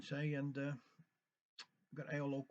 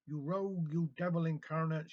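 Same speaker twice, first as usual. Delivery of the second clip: a touch of an angry screech, a little louder; mild screech; 5 dB louder than usual. Acted. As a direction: hurl the insult, understated. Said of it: "she screeched".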